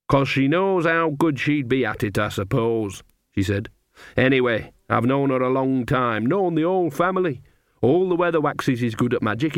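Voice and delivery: put-on a knowing old granny sharing gossip; Nanny Ogg. Nanny to Magrat, gossiping about Esme, old woman voice.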